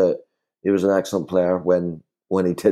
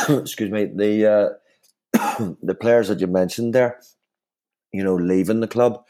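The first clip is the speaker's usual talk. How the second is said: coughing through a tickle in the throat; choking. Real, not acted. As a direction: talk while fighting off a choke. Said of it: "Sorry, I'm choking here".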